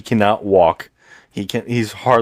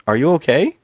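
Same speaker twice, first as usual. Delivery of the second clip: mock concerned woman; 6 semitones higher than usual. Mimicking woman talking to a head.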